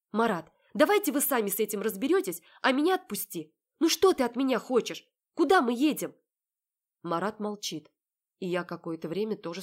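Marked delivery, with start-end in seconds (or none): 0.1-6.2 raised, loud insistent demands; agitated plea. Acted. Heroine demanding Marat release her, agitated. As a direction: demand he let you go.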